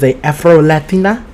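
a little Latina accent, lifted at the end; lightly put-on Latina accent. Shown as a demonstration. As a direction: say Afro-Latina with a playful Latina lilt. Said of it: "little accent".

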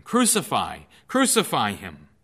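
loud, insistent mob cry; crowd shouting. Acted. The crowd keeps shouting at Pilate, loud. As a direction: keep shouting it at him. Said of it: "but they kept shouting".

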